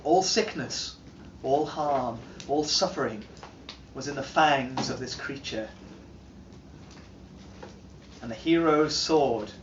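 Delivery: solemn saga teller with sweeping highs and lows; grave epic recital, rising and sinking; dramatic reading. Acted. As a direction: tell it like an old legend to a listening hall. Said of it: "doing a dramatic reading".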